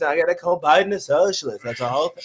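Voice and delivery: lightly voiced Trump, rambling and boastful; a hint of Trump bragging about the campaign; Trump impression. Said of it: "That's a spot on Trump".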